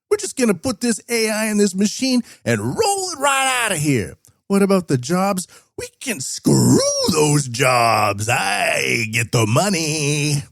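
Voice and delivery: high, brash Canadian-Chinese accent imitation; hammed-up Canadian-Chinese accent, high and stretched out at the end; mock Canadian-Chinese accent. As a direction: play a pushy hustler in a high, put-on Canadian-Chinese accent. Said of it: "that's the Canadian Chinese accent now".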